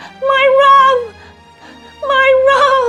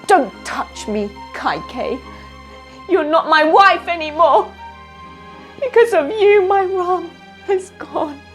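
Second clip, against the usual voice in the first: loud, higher, bitter rebuke; furious grief; 8 semitones higher, 12 dB louder than usual. Acted. King Dasharat rejecting Kaikeyi, furious grief. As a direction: spit it at her in grief.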